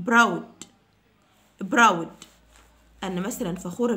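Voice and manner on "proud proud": proud said loudly and firmly; loud drill. Shown as a demonstration. Teacher calling out the word for students to repeat. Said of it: "teacher drills the word".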